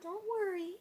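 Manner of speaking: high-pitched comfort for a cat; soothing pet talk. Real, not acted. Answering the meowing cat, soothing. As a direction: reassure a complaining pet, pitched well up.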